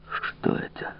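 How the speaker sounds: беззвучный шёпот, настороженно; спроси шёпотом, прислушиваясь; тревожный шёпот. Acted. Фуке шёпотом у страшной двери. (тревожный шёпот)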